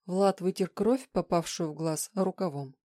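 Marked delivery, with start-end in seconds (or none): none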